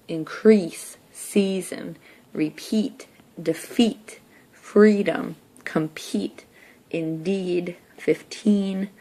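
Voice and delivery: each word with the ee vowel stressed and drawn out; accentuated E. Shown as a demonstration. Teacher checking the word sort aloud, accentuated vowels. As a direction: lean on the ee in every word. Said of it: "I'm just going to accentuate the E".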